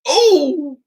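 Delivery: a high, sharp squeal of shock. Acted. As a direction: squeal at the cold water. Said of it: "Matthew squeals".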